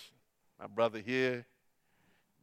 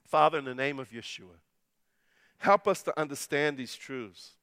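prayer; 3 dB louder than usual. Acted. Closing prayer.

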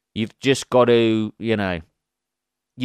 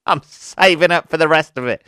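louder, higher, cracking up mid-line; laughing punchline; 5 semitones higher, 6 dB louder than usual. Acted. Woman joking to new lover about herself, laughing. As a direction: deliver the joke through laughter.

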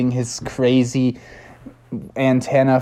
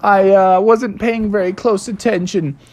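sheepish apology; 7 semitones higher than usual. Acted. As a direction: apologise meekly, drawing it out. Froggy apologising.

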